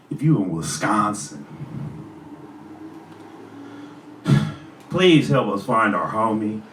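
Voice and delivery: low, soft, out of breath; halting appeal, pausing to sigh for air; winded. Real, not acted. Rapper appealing for a missing friend, winded. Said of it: "I got winded from all that".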